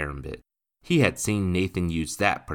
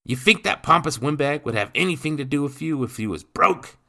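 loud, higher cockney sneer; 8 semitones higher, 6 dB louder than usual. Acted. Stepfather to the boy, sneering cockney. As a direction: crush the boy's hope.

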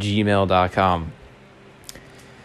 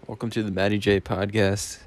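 raspy smoker's voice; 6 dB quieter than usual. Real, not acted. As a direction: talk through a smoker's rasp. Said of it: "with my smoker's voice".

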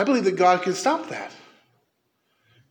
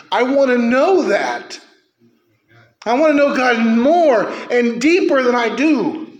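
impassioned preaching; 3 semitones higher, 4 dB louder than usual. Real, not acted. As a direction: cry out your longing. Passionate plea to know God.

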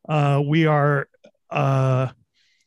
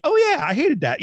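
mock disgust; 12 semitones higher than usual. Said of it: "and then I'm like".

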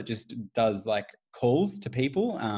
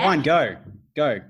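snapping back; 5 semitones higher, 8 dB louder, slower than usual. Acted. Acted marital quarrel.

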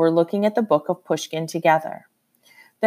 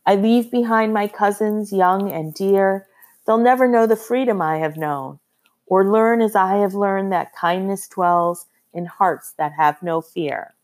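poem recital. A narrator's reading.

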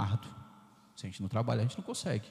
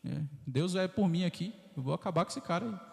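put-on higher, cocky boy's boast; young David boasting; 5 semitones higher than usual. Priest voicing David before Goliath, lightly boastful. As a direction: brag like a bold shepherd boy. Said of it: "Davi falando assim".

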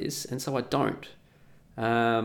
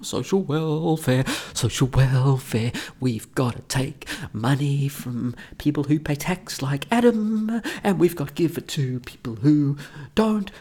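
mock politician; slower than usual. Mocking welfare politicians.

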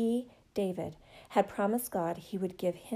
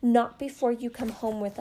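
put-on much higher, louder, gleeful child taunt; little boys shouting with glee; laughing and shouting; 5 semitones higher, 6 dB louder than usual. A narrator's reading. Little boys jumping around David, shouting and laughing, much higher and louder. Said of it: "laughing and shouting".

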